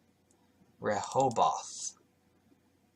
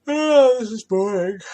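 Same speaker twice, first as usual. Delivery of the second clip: high, loud, put-on groan of boredom; exaggerated boredom; 10 semitones higher, 10 dB louder than usual. Real, not acted. Reader groaning loudly at the dull Bible passage, hammed-up.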